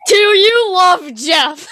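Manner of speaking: laughing through the question. Real, not acted. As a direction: giggle the teasing question out slowly.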